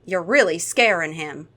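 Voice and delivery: lightly voiced Southern reproach; Southern accent. Cara warning Freddy that he scares Tyler, Southern accent. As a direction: reproach him with a Southern twang. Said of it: "She's Southern, you knew this".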